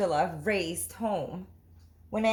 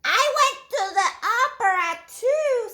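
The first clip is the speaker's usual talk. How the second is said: put-on much higher, louder eager child; 14 semitones higher, 6 dB louder than usual. Ruby boasting to class, high eager child voice. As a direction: blurt it out proudly.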